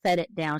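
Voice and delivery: "set it down" with Southern vowels; Southern pronunciation. Shown as a demonstration. Linguist imitating the woman's speech, Southern vowels in "set it down". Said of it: "she had some Southern pronunciation features".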